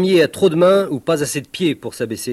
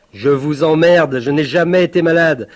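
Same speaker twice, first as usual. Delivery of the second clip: defiant insult; 2 semitones higher, 5 dB louder than usual. Acted. Insulting footballers, ranting.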